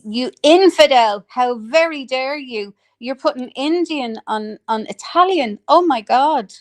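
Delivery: high-pitched theatrical scolding; mock outrage. Berating someone for putting Indian on Italian, mock outrage.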